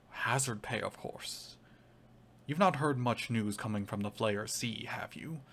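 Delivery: crime lord's lightly Irish wheedling; hint of an Irish-accented schemer; accidental Irish accent. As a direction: coax them in a slight Irish lilt. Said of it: "that's the best Irish accent".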